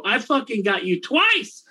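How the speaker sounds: high, slow gloating yell; triumphant slow jeer; yelled taunt. Retold or imitated. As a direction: drag it out to mock him as he's hauled off. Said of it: "And I yelled it at him".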